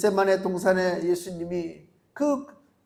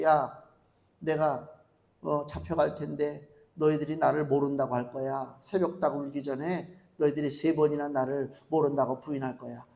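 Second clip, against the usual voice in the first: lower, softer sad warning; Jesus foretelling, gentle; 6 semitones lower, 7 dB quieter than usual. Acted. Jesus gently warning Peter at Gethsemane, soft and low. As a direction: tell him quietly what will happen.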